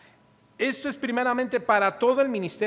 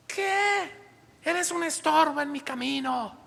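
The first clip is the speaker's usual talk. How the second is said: sharply raised, rebuking voice of God; voice of the Lord; 7 semitones higher than usual. Retold or imitated. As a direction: speak as God scolding him, high and sharp. Voicing the Lord rebuking him.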